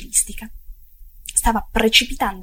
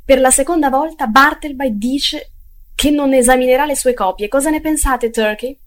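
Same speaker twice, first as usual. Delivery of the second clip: loud, higher-pitched indignant appeal; exclaiming; 4 semitones higher, 7 dB louder than usual. A narrator's reading. Employer appeals to Turkey about Bartleby, exclaiming loudly.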